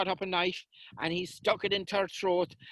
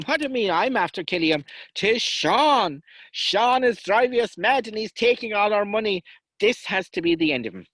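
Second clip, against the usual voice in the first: angry outburst; 5 semitones higher, 6 dB louder than usual. Acted. Angry brother blaming Sean.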